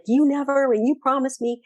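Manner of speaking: mock angry accusation. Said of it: "come back at me like that".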